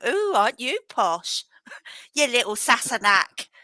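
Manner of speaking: lightly voiced Scottish cousin teasing, with a laugh; a hint of a scornful Scottish cousin; mock Scottish cousins. Cousins mocking him for losing his accent, lightly Scottish.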